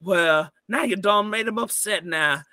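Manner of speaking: slow New Orleans scolding; Tatiana's New Orleans accent. Acted. Tatiana scolding the table for upsetting him, New Orleans accent. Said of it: "And Tatiana goes".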